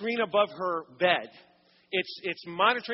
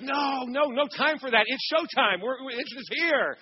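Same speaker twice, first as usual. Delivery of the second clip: excited; 5 semitones higher than usual. Retold or imitated. Husband brushes off nurse excitedly.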